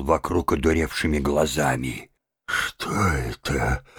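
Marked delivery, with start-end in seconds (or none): 2.5-3.8 dazed. A narrator's reading. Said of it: "Бледный, задыхаясь, говорил он".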